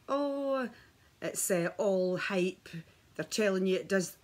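scoffing like a doubter; skeptical scoff. Retold or imitated. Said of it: "a skeptical".

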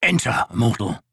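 slow rasp from inside the tent. Acted. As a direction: grate out the welcome slowly. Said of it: "then a voice rasped".

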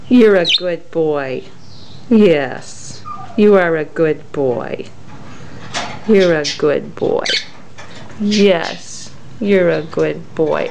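cooing praise. Real, not acted. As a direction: coo it to the pet.

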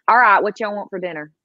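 quick, casual Southern twang; lightly Southern, like calling family to dinner; Georgia accent. Retold or imitated. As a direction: let a Georgia accent slip out. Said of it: "that's when my accent will come out".

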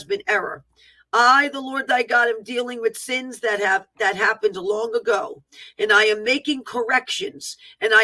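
emphatic declaiming, each phrase launched firmly; prophetic proclamation. Acted. Preacher voicing the Lord's warning to the nation, declaiming. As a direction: proclaim it as a solemn divine decree.

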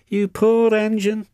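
high, put-on voice of sympathy; sympathising. A narrator's reading. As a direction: pity a fellow engine in a high voice. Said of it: "sympathised James".

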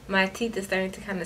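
speaking with fingertip at mouth; finger on lip. Real, not acted. Seen 1: Finger presses lower lip down at front teeth, 1.9–2.9s only.

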